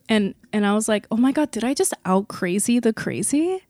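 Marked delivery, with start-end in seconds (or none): 1.1-3.6 startled, half-laughing disbelief; catching herself in shock at what she just did; stunned at herself. Retold or imitated. Shocked at own outburst.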